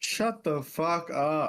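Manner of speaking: shouting. Reacting to another player's remark about lore: yelling. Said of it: "Who are you yelling at?".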